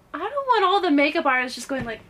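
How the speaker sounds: animated protest. Retold or imitated. Performer balking at doing the sound for makeup artists, animated protest. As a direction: act out a lively, exaggerated protest. Retells own worry about makeup artists' reaction.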